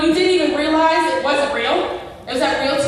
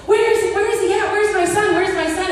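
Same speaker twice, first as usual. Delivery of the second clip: panicked search; 5 semitones higher than usual. Retold or imitated. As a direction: call out for the missing son in a panic. Woke from dream, freaking out.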